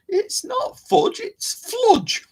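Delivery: high, slow toothless mumble; loose dentures. Real, not acted. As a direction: lisp it like teeth are out. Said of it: "I should put my teeth in".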